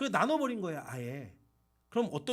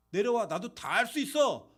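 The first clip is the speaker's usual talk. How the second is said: mock shout; 2 semitones higher, 5 dB louder than usual. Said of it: "라고 얘기하면서 그들이 당을 짓고".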